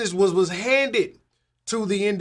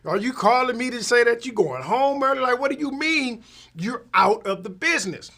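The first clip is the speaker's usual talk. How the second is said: mildly raised, pressing questions in disbelief; incredulous disbelief; 5 semitones higher than usual. Retold or imitated. To a friend who says he closed shop, incredulous. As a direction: repeat it back like you can't believe it. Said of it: "And I'm like".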